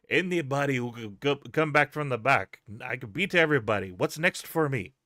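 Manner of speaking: loud, deliberate mock-German challenger; hammed-up German wrestler accent; bad German accent. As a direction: put on a clumsy German accent, pushing it out loudly. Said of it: "it's the worst German accent".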